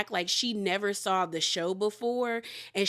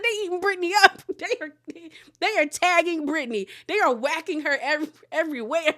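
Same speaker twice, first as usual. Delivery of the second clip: excited gossip; 6 semitones higher, 4 dB louder than usual. Real, not acted. Excited commentary while laughing.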